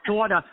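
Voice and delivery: "Daughter" with a heavy "aw", as "DAW-tah"; imitated Brooklyn vowel in "Daughter"; New York "daughter". Shown as a demonstration. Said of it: "Or what else?".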